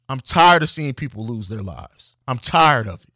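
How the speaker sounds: fed up, hammering the word tired; worked up. Real, not acted. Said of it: "I know I'm getting worked up".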